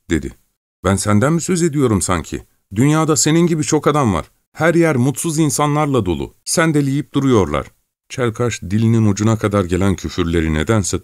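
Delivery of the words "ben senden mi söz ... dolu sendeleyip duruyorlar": put-on higher, hurried young peasant voice; flustered excuse. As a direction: nervously backpedal to calm him. Gavrila defends himself hastily.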